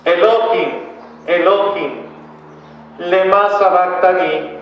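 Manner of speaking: clamor solemne, más agudo y algo más fuerte; grito potente narrado. A narrator's reading. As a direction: alarga la última frase como un clamor contenido. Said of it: "Jesús gritó con voz potente". (clamor en voz elevada, sin llegar al grito)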